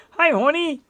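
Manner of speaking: put-on high-pitched Asian accent greeting. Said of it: "I shouldn't do the Asian accent".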